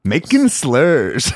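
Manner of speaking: slow drawn-out sarcastic phrase; mock sarcastic. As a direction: sneer the phrase slowly. Mocking a phrase.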